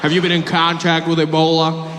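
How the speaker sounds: loud put-on official voice; earnest airport officer. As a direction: ask it like checking on a relative. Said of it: "they always said it like Ebola was".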